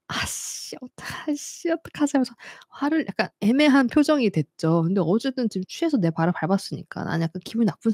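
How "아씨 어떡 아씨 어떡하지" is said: hushed, softer self-talk; half-whispered panic to self; inner whisper. Retold or imitated. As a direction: whisper a flustered thought to yourself. Her inner dilemma voiced.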